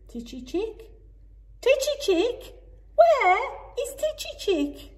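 alarmed cry. Acted. Dylan realising his friend is missing, alarmed. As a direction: call out in sudden worry.

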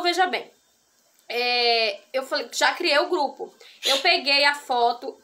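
usual speaking voice

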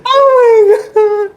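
high wailing cry. Real, not acted. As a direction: wail it in real dismay. Reacting to bad taste.

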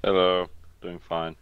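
low, understated greeting; timid, low-key hello; subdued intro. Real, not acted. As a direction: answer low and with little energy. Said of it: "that intro was "Hi, hi, I'm doing fine".

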